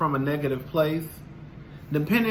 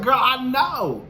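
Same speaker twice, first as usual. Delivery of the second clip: knowing drawl; 7 semitones higher, slower than usual. Retold or imitated. Retold agreement.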